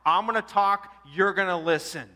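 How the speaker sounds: firm, measured, commanding; with great authority. Retold or imitated. Tony orders the couple to listen, firm command. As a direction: take charge of the room. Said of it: "with great authority".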